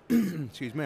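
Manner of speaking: clearing throat mid-sentence; coughing. Real, not acted. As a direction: clear the throat, then apologise. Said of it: "I'm coughing".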